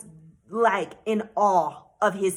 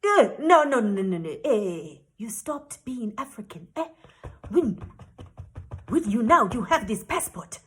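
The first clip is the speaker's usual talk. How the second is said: voiced official waving away an objection; imitated dismissive official. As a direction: act out a man brushing off her claim. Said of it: "And he says".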